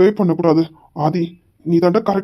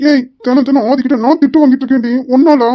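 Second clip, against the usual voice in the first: angry outburst; 4 semitones higher, 4 dB louder than usual. Acted. Boss scolds girlfriend for lateness.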